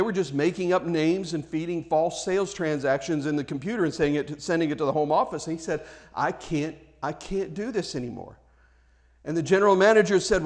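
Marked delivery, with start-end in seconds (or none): 6.1-8.4 soft, low-key confession of conscience; quiet, sincere I can't go on; quiet refusal. Retold or imitated. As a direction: say it softly, burdened. Young man refuses to lie.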